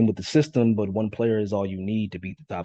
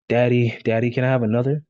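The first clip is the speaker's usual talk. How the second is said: put-on high, fast, loud little kid pleading; child begging; 4 semitones higher, 5 dB louder than usual. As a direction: beg daddy like an eager toddler. Child begging father for more.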